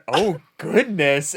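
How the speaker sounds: drawn-out, slow "Oh, goodness"; slow mock dismay. Voicing Malice reacting to Tim's threat, slow mild dismay. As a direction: let it stretch out slowly in mild dismay. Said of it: "Malice in my head went".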